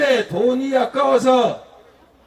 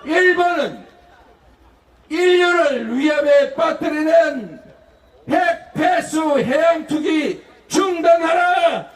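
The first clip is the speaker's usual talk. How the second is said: slogan shout. Shown as a demonstration. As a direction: bellow it like a crowd demand. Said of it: "대통령이라면 당연히 이렇게 말해야 합니다". (구호를 외치듯 힘차게)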